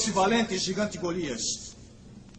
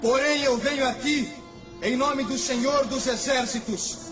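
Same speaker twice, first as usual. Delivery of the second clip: fervent proclamation; 9 semitones higher than usual. Acted. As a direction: proclaim it with holy fire. Davi proclama diante do gigante. (proclamação fervorosa e exaltada)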